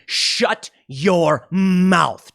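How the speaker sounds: very slow, drawn out dismissal; hammed-up slow brush-off; mock Trump. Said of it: "he's just gonna be".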